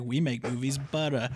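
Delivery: put-on a touch of Southern accent on "better"; imitated southern accent. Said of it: "she had a southern accent for better".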